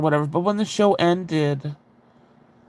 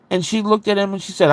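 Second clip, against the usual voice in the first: usual speaking voice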